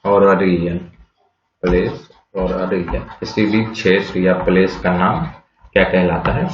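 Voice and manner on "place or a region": slow repeat. Shown as a demonstration. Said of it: "teacher repeats definition slowly".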